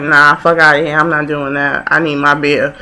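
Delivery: dismissive woman. Retold or imitated. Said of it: "that she was just like".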